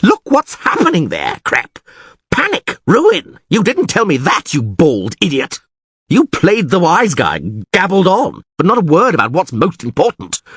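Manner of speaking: high, urgent, exclamatory tirade; panicked ranting. A narrator's reading. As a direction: blame and plead as your town falls. Mayor rants in panic.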